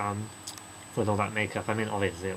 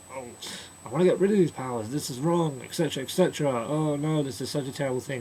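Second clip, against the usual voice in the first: higher, louder, fast whining; whiny complaining; 4 semitones higher, 4 dB louder than usual. Retold or imitated. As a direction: moan it all in a panic. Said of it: "He's like".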